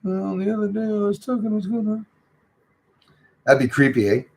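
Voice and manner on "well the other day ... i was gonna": high, soft muffled mock voice; imitating how he talks. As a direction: mumble it high and quiet, as if through a mask. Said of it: "explain why he talks like this".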